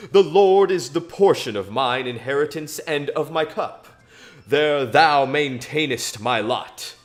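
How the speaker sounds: measured, solemn Bible reading; scripture reading. Acted. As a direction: read the psalm as if to a congregation. Reading a psalm aloud.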